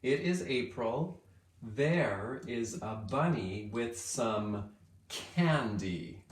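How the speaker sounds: very slow poem reading; teacher reading the changed poem slowly; slow read-aloud. Shown as a demonstration. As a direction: read the new line word by word. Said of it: "We've changed it to say".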